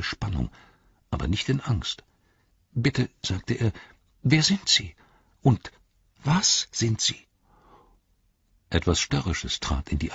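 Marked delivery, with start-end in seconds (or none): 2.7-7.3 higher, small voice of an astonished hobbit; curious hobbit. Acted. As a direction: ask up at the giant, wide-eyed. Pippin asks the Ent. (Pippin fragt staunend mit heller Stimme)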